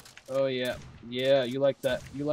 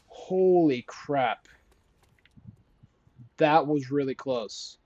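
stunned relief; 2 semitones higher, 6 dB louder, much slower than usual. Real, not acted. Relief after close call.

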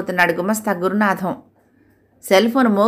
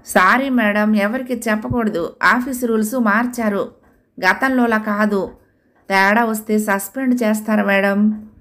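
pitiful plea; 2 semitones higher than usual. Acted. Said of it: "దీనంగా చెప్పాడు".

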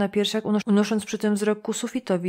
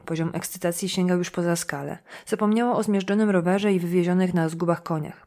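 usual speaking voice

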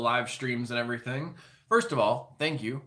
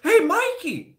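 higher, louder sing-song call; imitating a big brother yelling at Mikey; mock yell; 8 dB louder, slower than usual. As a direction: call out to the kid, hammed up. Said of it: "he yells at Mikey".

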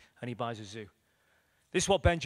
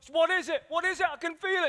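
eager questioning; 13 semitones higher, 5 dB louder than usual. Retold or imitated. Woman asks, feeling presence.

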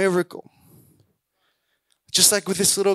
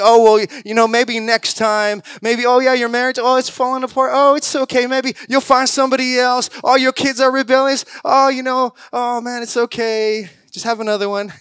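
hammed-up resigned sighing, higher; mock whiny complainers; 3 semitones higher than usual. Preacher mocking the funeral-music crowd, whiny. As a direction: mimic gloomy naysayers, a bit higher. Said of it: "All the people crying and complaining".

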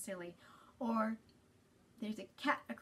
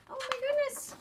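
much higher, bright gasp of wonder; delighted surprise; 5 dB louder than usual. Acted. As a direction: marvel at it like a child would. Reader marvels at the picture.

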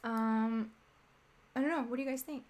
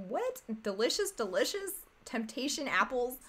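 incredulous. Pretend. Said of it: "I'd be like".

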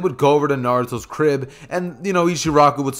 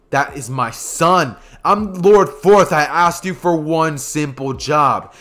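stern anger; 3 dB louder, slower than usual. Acted. Minato furious at Hiruzen.

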